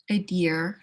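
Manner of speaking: "Idea" ending in an R; "idear" with final R. Shown as a demonstration. Trying out the local form, idea with an added R. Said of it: "Or idea instead of idea".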